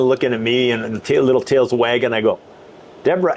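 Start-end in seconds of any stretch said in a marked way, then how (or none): 3.0-3.3 higher, sweet-talking happy call. Retold or imitated. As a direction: call the wife in a put-on happy voice. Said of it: "said it in my happy voice".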